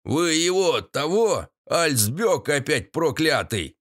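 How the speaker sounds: hint of an old man; old man gossiping; lightly voiced grandpa. A narrator's reading. Grandpa continues.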